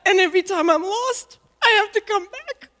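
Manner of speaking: on the edge of crying; tearful. Real, not acted. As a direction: let the voice tremble with tears. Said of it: "And I'm gonna cry".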